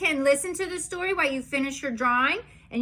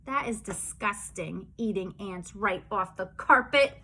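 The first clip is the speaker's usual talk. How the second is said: lower, softer grossed-out aside; mock disgust; 5 semitones lower, 4 dB quieter than usual. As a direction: pull back in disgust. Disgust after singing.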